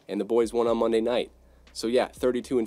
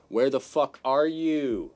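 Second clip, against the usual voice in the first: exasperated call-out; 3 semitones higher, much slower than usual. Real, not acted. Calling out to absent player.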